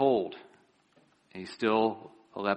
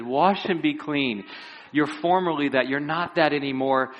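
firm proclamation; 4 semitones higher, 4 dB louder than usual. Retold or imitated. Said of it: "He said".

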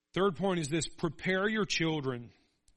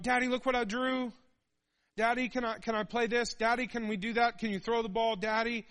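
put-on high, louder eager child; pestering kid voice; 6 semitones higher, 4 dB louder than usual. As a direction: nag like an excited little kid. Kids pestering their tired dad.

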